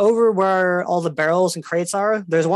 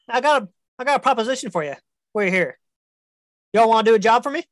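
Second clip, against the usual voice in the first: scheming dragon; 5 semitones higher, faster than usual. Acted. Dragon offers deal.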